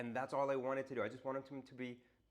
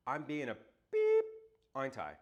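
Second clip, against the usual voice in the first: sheepish blurt; 7 dB louder than usual. Retold or imitated. Angry customer admits it.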